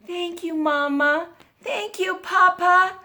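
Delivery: put-on high-pitched storybook child; little girl. A narrator's reading. Little girl thanks Mama and Papa, high child voice. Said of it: "she said".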